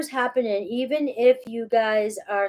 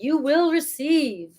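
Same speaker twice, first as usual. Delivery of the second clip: slow, higher, orator-style repeat; a light, playful stab at a grand preacher cadence; drawing out each word like a speech; mock Martin Luther King; 5 semitones higher, slower than usual. Shown as a demonstration. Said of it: "why did I just say it like that?".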